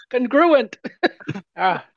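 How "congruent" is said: congruent drawn out slowly as kun-GRU-ent; stress on G. Shown as a demonstration. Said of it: "The stress is on the G".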